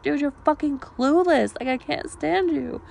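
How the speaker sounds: put-on exasperated quote from an old argument; retold exasperation. Acting out her side of quarrel.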